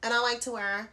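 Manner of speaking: playful, lightly affected sing-song; a hint of a mock prissy voice; funny put-on voice. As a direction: put on a silly voice for fun. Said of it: "I don't know why I'm talking like this".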